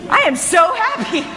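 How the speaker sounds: emphatic, lifted delight; mildly hammed-up happy exclamation; retold happiness. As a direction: relive being amazed at your own joy. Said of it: "I started walking around going".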